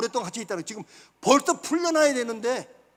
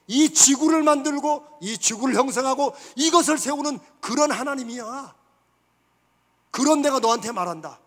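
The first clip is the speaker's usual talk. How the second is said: God's proud voice; 3 semitones higher, 4 dB louder than usual. Acted. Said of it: "하나님이 말씀하시는 거예요".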